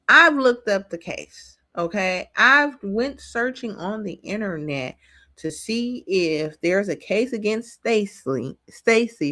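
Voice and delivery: slightly slurred speech through braces; words tripping over braces; talking with braces. Real, not acted. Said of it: "I have these braces, so I can't really talk perfect".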